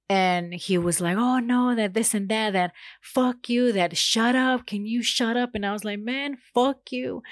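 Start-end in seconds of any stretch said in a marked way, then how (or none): 1.2-5.5 higher-pitched imitation of ranting; mock angry retort. Neighbor telling her to shut up, mock angry. Retold quarrel, neighbor cursing back. 6.0-7.2 high, drawn-out mock comeback; retold anger. Woman cursing back at neighbor, acted anger. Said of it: "I really started getting mad".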